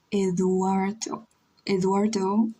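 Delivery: Eduardo with an English accent. Shown as a demonstration. Streamer trying own name in English, English accent. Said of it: "saying it in English accent".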